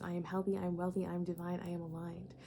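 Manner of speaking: softening, calm recited affirmations; a quiet self-affirmation, fading; affirmation mantra. Shown as a demonstration. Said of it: "saying and confirming and reaffirming".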